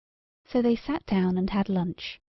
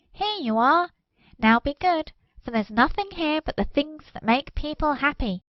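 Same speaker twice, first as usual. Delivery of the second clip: put-on a higher, kindly magic ball talking to children; lightly voiced friendly ball, settling the children in; bouncing ball voice; 6 semitones higher than usual.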